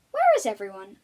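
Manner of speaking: loud puzzled call. Acted. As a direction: call out for the missing animals. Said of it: "asked the crocodile".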